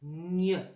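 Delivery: "gne" as a nasal palatal sound, clearly set apart; isolated sound. Shown as a demonstration. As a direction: present the sound to children. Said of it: "c'est le son".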